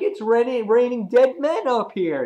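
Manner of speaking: high-pitched mock exclamation; excited quote. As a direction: call it out high, lightly acted. Acting out a character's cry.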